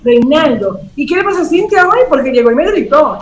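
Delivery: mock gossip, pitch up; gossiping complaint. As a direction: pour out the grievance to a friend. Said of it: "caemos en esa trampa de".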